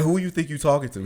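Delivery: tough threat. Retold or imitated. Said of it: "He was like".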